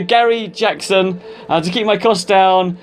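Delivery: radio DJ voice. Acted. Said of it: "I'm sounding like a radio D J now".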